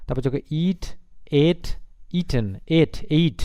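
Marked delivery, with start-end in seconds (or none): 2.8-3.4 "এট, এইট" sounded like the English number eight; pronounced like eight. Shown as a demonstration. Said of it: "এই এইটের মতো, ইংরেজির আটের মতো".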